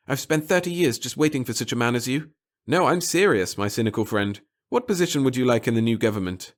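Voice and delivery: a hint of a confident conspirator; lightly voiced, sure of himself; lightly voiced Pettigill.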